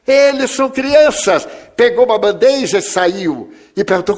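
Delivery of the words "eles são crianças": put-on high, raised child's cry of alarm; child shouting. Boy cries out to his mother at the orphanage door, high and raised. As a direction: call out to mother as a startled boy.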